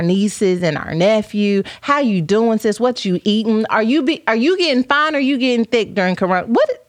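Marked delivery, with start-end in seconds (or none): 6.5-6.8 mock shock. Real, not acted.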